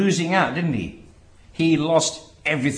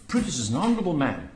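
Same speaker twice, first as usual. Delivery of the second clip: quick, softer matter-of-fact praise; sincere praise; 2 semitones lower, 5 dB quieter, much faster than usual. Shown as a demonstration. Preacher quoting the speech's admiring opening, sincere praise. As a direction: say it as simple, honest tribute. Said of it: "the very tone takes him".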